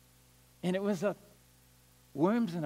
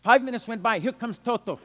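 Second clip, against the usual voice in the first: ordinary talk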